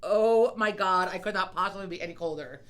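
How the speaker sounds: mock freezing complaint. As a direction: wail it as if frozen. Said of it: "and I'm like".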